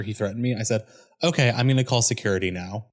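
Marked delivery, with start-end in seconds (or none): 1.2-2.9 polite, even customer-service voice; calm polite warning. Retold or imitated. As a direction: stay calm and courteous while warning. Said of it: "a dead-on impression of how it sounded".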